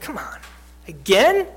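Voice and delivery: imitated weary impatience; fed up. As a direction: sigh it out, then lift into a disbelieving question. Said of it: "fed up".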